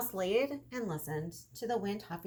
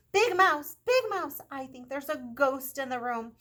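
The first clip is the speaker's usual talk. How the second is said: high, loud scared shout; frightened yell; 5 semitones higher, 9 dB louder than usual. A narrator's reading. Little Mouse yells to Big Mouse about a ghost, frightened loud shout. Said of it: "feeling very frightened, he yelled".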